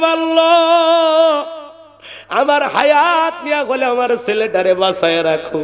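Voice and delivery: high, slow drawn-out cry to God; mother weeping as she prays, high and slow; tearful prayer. Acted. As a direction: wail "Allah" long and high. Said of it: "কেঁদে কেঁদে বলেছিলাম".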